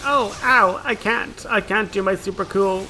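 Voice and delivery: high, mock-whiny hurt monster. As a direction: whine like a thwarted boss monster. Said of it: "and it's like".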